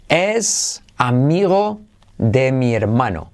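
slow Spanish practice sentence; slow practice read. Shown as a demonstration. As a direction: read the line slowly for learners. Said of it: "Frase para practicar". (frase de práctica leída despacio)

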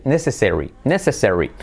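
necessary as /neseseri/, English vowels; native necessary. Shown as a demonstration. Teacher shows how natives say necessary. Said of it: "se dice".

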